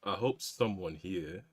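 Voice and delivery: too much Foghorn Leghorn; overdone southern drawl, all gravitas; heavy southern drawl. Acted. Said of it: "it's still too Foghorn Leghorn".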